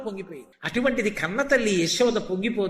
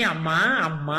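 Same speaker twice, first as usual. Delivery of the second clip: tender, savoured call; 6 semitones lower, slower than usual. Retold or imitated. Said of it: "మాట మాధుర్యాన్ని".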